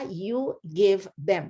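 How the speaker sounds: very slow, drawn-out ending; slow teacher gloss. Shown as a demonstration. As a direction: stretch each word. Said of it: "slow gloss".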